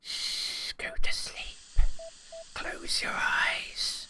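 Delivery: soft hushed lullaby whisper; soothing whisper. Pretend. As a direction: hush her to sleep gently. Soothing patient to sleep.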